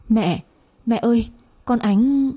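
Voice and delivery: hớt hải gọi mẹ; crying out. Acted. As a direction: call out in alarm while running in. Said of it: "vừa chạy vừa kêu lên".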